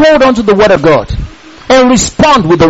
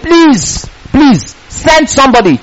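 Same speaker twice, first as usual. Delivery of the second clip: begging; 3 semitones higher, slower than usual. Retold or imitated. Rich man in hell begs Abraham, pleading. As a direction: plead for someone to be sent. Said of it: "was begging Abraham".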